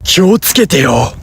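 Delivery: mildly sharp telling-off; mock angry warning. Angry warning in Japanese, mildly acted. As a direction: warn them with light put-on anger. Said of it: "Kalau kamu marah".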